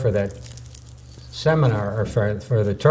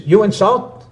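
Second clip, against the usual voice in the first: put-on Korean accent; 3 semitones higher than usual. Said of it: "He says".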